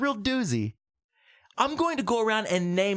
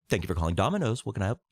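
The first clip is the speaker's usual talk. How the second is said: a lightly voiced pizza clerk, lower; bored phone clerk taking an order; pizza man; 8 semitones lower, much faster than usual. Pizza man answering Robin Leach's call, low clerk voice. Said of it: "I'll play the pizza man".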